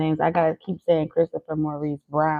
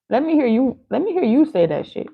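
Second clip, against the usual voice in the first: eager; 7 semitones higher, 4 dB louder than usual. Real, not acted. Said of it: "asks to hear it said".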